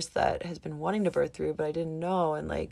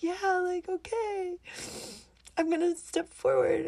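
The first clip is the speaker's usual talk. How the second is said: excited; 12 semitones higher than usual. Retold or imitated. Quoting her own new resolve.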